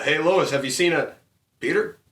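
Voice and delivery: character voice. Retold or imitated. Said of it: "more Family Guy characters".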